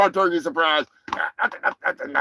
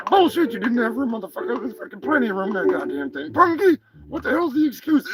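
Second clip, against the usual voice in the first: high, squawky put-on turkey voice, annoyed; angry turkey character; 5 semitones higher, faster than usual. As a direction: play an irritated turkey scolding his pal. Turkey character keeps scolding.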